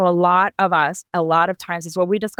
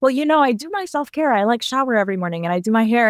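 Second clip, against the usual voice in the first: lightly mimicked client, pitched up at first then quicker; imitating self-care defender; 4 semitones higher, faster than usual. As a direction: quote someone offering a breezy justification in a higher voice. Voicing people who defend their self-care.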